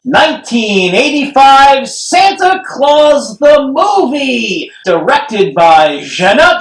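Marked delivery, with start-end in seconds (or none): 0.1-4.7 hyped title call; announcer shout. Real, not acted. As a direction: announce it like a movie trailer.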